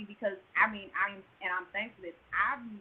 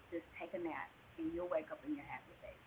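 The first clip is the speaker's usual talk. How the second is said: very soft, lowered voice; soft reassurance; 5 semitones lower, 14 dB quieter than usual. Retold or imitated. Anesthesiologist to crying patient before a nap, soft reassurance. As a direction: soothe a patient gently toward sleep. Anesthesiologist soothing her, retold.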